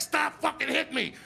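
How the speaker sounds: high-pitched mock protest; protesting yell. Boy fighting back at the nun, high protesting yell. Kid yells at nun hitting him.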